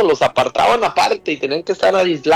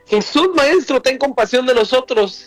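pleading call; 6 semitones higher than usual. Retold or imitated. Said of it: "Y aquí les dice".

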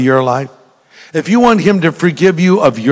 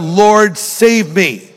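slightly raised, higher-pitched plea; retold crying out; 5 semitones higher, much slower than usual. Preacher retelling Peter sinking on the water, mild cry for help. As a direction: call out for rescue, mildly. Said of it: "he cried out".

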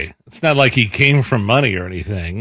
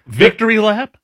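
incredulous echo; 11 semitones higher than usual. Real, not acted. Cohost echoing the host's phrase, high and incredulous. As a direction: pitch jumps high on a disbelieving question.

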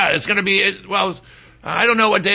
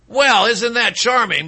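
sarcastic; 4 semitones higher than usual. Real, not acted. Sarcastic comment on lawsuit.

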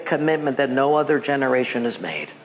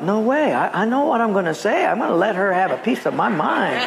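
defiant protest; 3 semitones higher than usual. Retold or imitated. Acted defiant thought in the queue.

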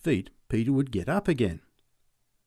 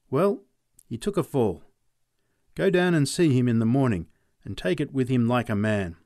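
a touch of a gruff, firm father; stern father; 5 dB louder than usual. Acted. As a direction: say it like a dad giving plain advice. Father's advice voiced.

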